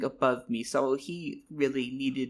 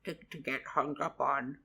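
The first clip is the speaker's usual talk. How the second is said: lower, calm soothing voice; reassuring mentor; 3 semitones lower than usual. Acted. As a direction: settle him down like a wise mentor. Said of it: "he patted my back and he went".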